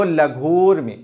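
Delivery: लघूर्मी said slowly, holding the long ऊ in the middle; long middle vowel. Shown as a demonstration. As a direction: stretch the ऊ of लघूर्मी as a model. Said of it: "शब्द के मध्य में हम क्या देख रहे हैं कि दीर्घता".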